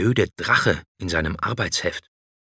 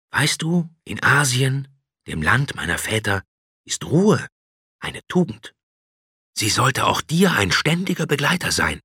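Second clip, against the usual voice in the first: dragon; 5 semitones higher than usual. A narrator's reading. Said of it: "fuhr der Drache fort".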